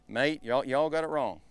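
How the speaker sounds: mock Australian accent, lightly done. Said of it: "in his Australian".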